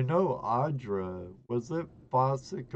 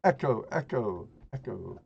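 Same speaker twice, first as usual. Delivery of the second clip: fading echo; faster than usual. Pretend. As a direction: echo that dies away.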